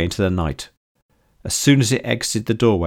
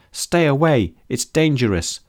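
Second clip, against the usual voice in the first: shouting warning; 6 semitones higher than usual. Acted. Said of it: "shouted May".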